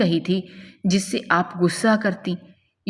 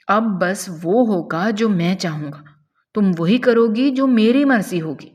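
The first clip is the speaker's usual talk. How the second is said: domineering threat; 3 semitones higher than usual. Acted. Captor dictates his will to her.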